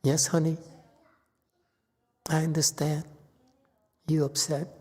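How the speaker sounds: very soft, placating murmur; soothing apology. Acted. Teacher models answering an upset honey, hushed and apologetic. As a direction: apologize softly, with gentle pauses between phrases.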